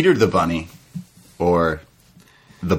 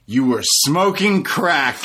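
imitating DDP; 2 semitones higher than usual. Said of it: "He says".

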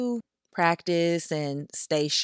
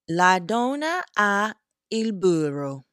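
slow, louder, higher Italian line; 4 semitones higher, 5 dB louder, slower than usual. Shown as a demonstration. Vlogger showing viewers a lesson sentence, in deliberate Italian. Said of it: "let me tell y'all something in Italian".

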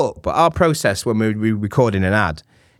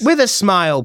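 mock coaching catchphrase, pitched up; smile in the voice; 8 semitones higher than usual. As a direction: say it as a teasing pet phrase, higher. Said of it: "one of your favorite phrases".

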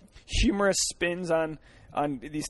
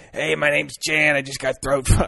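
raspy secretary voice; 3 dB louder than usual. Retold or imitated. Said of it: "I can't even do that voice".

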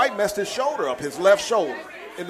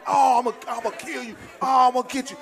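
higher, mock-furious trash talk; retold crazy threat; 6 semitones higher than usual. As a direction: imitate a rival going crazy with threats. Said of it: "He was going crazy".

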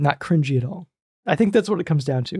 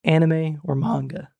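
voice crack. Real, not acted. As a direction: voice cracks on the question. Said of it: "my voice cracked".

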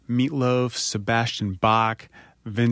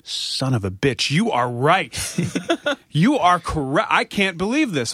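Meatloaf; 6 semitones higher than usual. Retold or imitated. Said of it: "And he goes".

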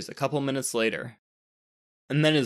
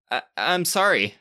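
stammered; 3 semitones higher than usual. Acted. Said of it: "stammered Alexander".

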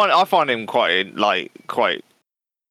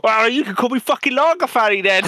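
high squeaky puppet; 11 semitones higher than usual. Retold or imitated. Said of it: "It's like".

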